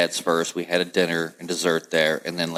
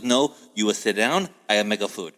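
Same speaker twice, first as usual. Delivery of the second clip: put-on great-grandmother's Italian accent. Grandma overrules grandson who already ate, light Italian accent. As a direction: insist with a hint of Italian accent. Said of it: "she had that accent".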